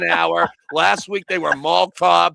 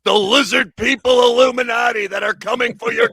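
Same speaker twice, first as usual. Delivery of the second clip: loud, higher heel brag; wrestler boast; 3 semitones higher, 5 dB louder than usual. Acted. His wrestler persona boasting to the hosts, loud. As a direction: gloat like a wrestling villain.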